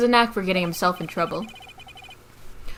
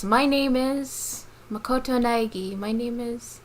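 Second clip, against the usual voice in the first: mock visual novel intro; 3 semitones higher, 4 dB quieter, slower than usual. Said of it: "visual novel has this moment".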